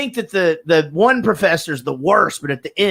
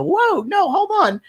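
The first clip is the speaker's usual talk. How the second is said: much higher, frantic denial; pleading excuses; 4 semitones higher than usual. Retold or imitated. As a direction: protest your innocence in a panic. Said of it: "you stick your arm in the elevator and you go".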